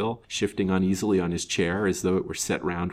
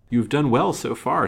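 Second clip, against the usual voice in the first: higher, emphatic approval; approving; 6 semitones higher, 6 dB louder than usual. A narrator's reading. Banker commends his detective on the case, approving. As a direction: give credit where it is due. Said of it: "said Mister Lawrence approvingly".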